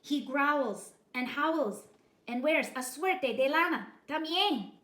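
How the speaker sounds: loud, slowed dog voice; chihuahua voice. A narrator's reading. Chihuahua warning about bully, ominous. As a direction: tell it ominously.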